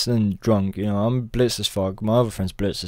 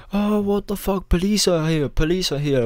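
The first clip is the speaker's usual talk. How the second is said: high alarmed cry of the news; mock panic; 7 semitones higher than usual. Stoned partygoers warning the room, high alarmed mock panic. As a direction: retell the panic, pitched up. Friends panic police arrive.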